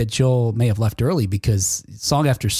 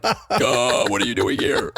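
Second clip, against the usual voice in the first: mock surprise; 2 semitones lower, slower than usual. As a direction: act caught off guard. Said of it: "you'd be like".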